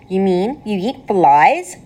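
slow, shocked question; mild mock gasp of shock.

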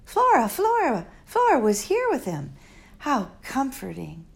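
a hint of an impatient young girl; Flora. Girl answering the old doctor, lightly impatient.

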